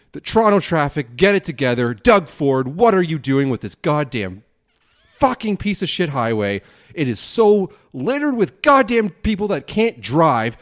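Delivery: exasperated venting, pitch jumping on the complaints; real road-rage rant, punching the key words; pissed-off rant. Real, not acted. Driver ranting about ten hours in Toronto traffic, pissed off. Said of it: "am so pissed right now".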